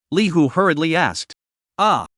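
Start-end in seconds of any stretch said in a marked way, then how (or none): 1.8-2.1 startled cry. A narrator's reading. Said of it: "let out a startled cry".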